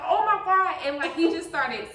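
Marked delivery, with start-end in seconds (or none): 0.1-0.8 loud, high cry of alarm; retold panic. Mom retelling her baby's fall, retold panic. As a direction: relive the panic, laughter close behind.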